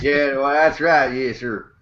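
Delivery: slow Texan agreement; playful put-on Texas voice; mock Texas accent. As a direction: drag it out like a Texan. Carrying on the Texas accent bit.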